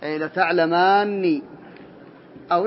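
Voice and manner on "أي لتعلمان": slow model form. Shown as a demonstration. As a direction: spell out لتعلمان slowly, syllable by syllable. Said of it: "أكمل".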